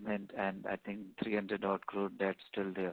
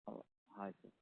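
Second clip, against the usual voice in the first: barely audible; 3 semitones higher, 7 dB quieter than usual. Real, not acted. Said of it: "your voice is very low".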